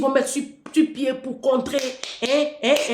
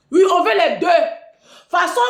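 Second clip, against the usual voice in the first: loud mocking demand; 6 semitones higher, 6 dB louder than usual. Real, not acted. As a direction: drag it out loudly to mock. Ranting at polygamist president.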